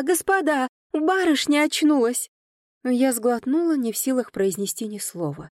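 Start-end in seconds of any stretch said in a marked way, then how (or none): 0.0-0.7 the word господа called again, high and falling; excited shout. A narrator's reading. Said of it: "она ахнула и закричала". 0.9-2.3 high, louder joyful announcement; excited shout. A narrator's reading. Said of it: "она ахнула и закричала".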